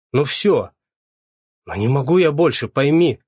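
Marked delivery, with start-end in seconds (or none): 1.6-3.2 raised, begging plea to his boss; pleading. A narrator's reading. Sashok begging his boss to let him go, pleading. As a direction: beg him to understand. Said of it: "взмолился Сашок".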